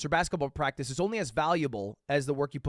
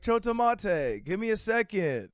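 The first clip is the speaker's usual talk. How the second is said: lightly voiced teacher, slow first word; light impression of a teacher buying time; imitating Japanese teacher; 3 semitones higher than usual. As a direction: stretch it out as the teacher stalling. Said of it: "And then he's like".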